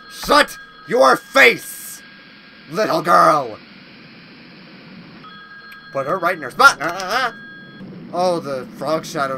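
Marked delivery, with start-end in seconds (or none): 0.1-3.6 mock taunt. Taunting the monster.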